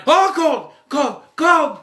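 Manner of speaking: high, loud yelps of shock at cold; imitated yelling. Movie husband yelping in freezing water, mock yelling. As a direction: yell it out, pitch jumping way up. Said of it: "he starts yelling".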